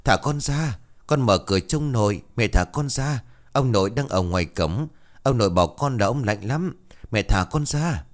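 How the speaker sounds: put-on a boy wailing at his mother to let him go; child sobbing and begging, lightly acted; bawling child. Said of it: "nó khóc toáng cả lên".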